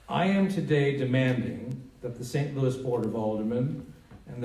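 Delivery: measured, deliberate public statement; formal read-aloud with weighted key words. Real, not acted. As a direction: read it out firmly, pausing between phrases. Reads a congressman's statement aloud.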